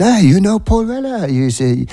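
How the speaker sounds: squeaky French-accent impression. French customer asking the shop man, in a high French accent. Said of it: "in his French accent".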